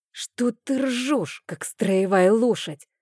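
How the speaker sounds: a half-voiced scolding hiss; hissed rebuke. A narrator's reading. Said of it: "зашипела я".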